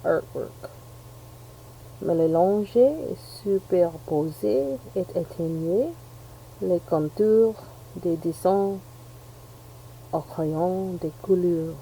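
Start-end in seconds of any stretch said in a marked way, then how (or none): 2.0-11.8 slow, lightly put-on French reading; fake French accent. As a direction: read the label like a French speaker. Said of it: "That's my fake French accent".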